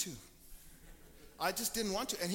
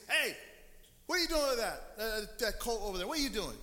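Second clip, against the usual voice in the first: challenging call; 2 semitones higher, 5 dB louder than usual. Retold or imitated. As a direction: call out across the street, suspicious. Townsman challenging disciples over colt.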